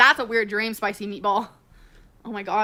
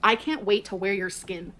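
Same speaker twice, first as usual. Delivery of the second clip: slow dictation; 5 semitones lower, 3 dB quieter, slower than usual. Retold or imitated. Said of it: "Destiny said".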